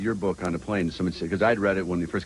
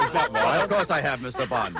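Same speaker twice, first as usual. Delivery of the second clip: mock villain; 4 semitones higher, slower than usual. Villain line parody, laughing.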